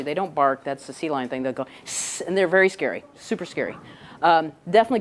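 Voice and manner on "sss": a soft, quiet seal hiss; imitated seal hiss. Mother seal warning off the scientist, quiet hiss. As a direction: hiss like a mother seal guarding her pup. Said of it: "they'll hiss at you".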